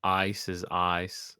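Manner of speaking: second "ice" with a flattened hillbilly vowel; slow demo of hillbilly "ice"; attempted family pronunciation. Shown as a demonstration. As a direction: slowly show "ice" turning toward "ahs". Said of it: "can't even say ice the way they do".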